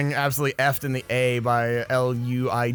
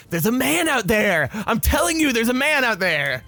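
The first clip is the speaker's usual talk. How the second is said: mock alarm; 6 semitones higher than usual. Player jokingly warning of a man out there, mock alarm. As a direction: insist in rising mock panic. Mock panicked cry over gameplay.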